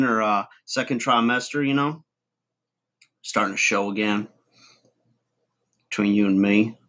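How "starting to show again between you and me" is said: talking around a wad of chewing tobacco; words pushed past a mouthful of chew; mouth full of chew. Real, not acted. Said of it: "Too much chew in my mouth".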